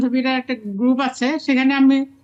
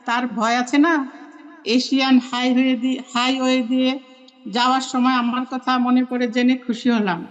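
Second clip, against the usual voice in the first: letter reading. Real, not acted. Reading her old letter to a school friend aloud, measured letter reading. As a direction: read it out in unhurried phrases with pauses. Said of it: "সেটা আমি পড়ে শোনাচ্ছি".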